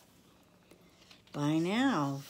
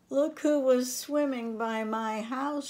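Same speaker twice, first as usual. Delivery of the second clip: higher, louder call through a window; 9 semitones higher, 6 dB louder than usual. A narrator's reading. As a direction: call to friends outside, pleased. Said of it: "she called".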